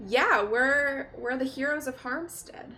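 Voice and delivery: Galaxia. Acted. Galaxia speaks in character.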